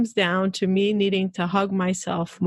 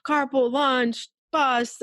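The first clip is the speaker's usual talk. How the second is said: higher-pitched list of reminders; morning checklist; 5 semitones higher, slower than usual. Retold or imitated. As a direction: call out the morning's to-dos, item by item. Acts out rushed morning checklist.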